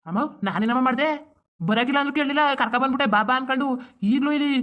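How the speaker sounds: aggrieved protest. Acted. Son answering his mother's blame, aggrieved protest.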